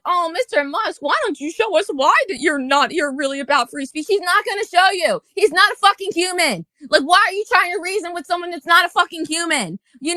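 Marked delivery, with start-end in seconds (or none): 0.0-4.1 mocking naive fans. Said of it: "people sitting here being like".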